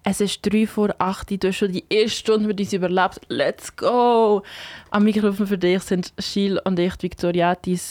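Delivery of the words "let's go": drawn-out, rising "Let's go!"; radio host's hype call; hyped call. Real, not acted. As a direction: kick off the show with a hyped shout-out. Hyped radio host kicking off the show.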